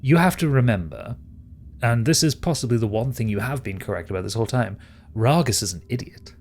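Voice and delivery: lightly voiced, assured schemer; scheming villain. Villain concedes a point to Stigveld, lightly theatrical and assured. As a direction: make each point with a touch of theatre.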